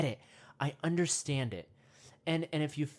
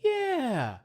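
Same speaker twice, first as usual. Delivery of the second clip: high, loud ape grunt; monkey agreeing; 10 semitones higher, 4 dB louder than usual. Retold or imitated. Other monkeys agreeing with a loud grunt. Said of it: "the other monkeys went".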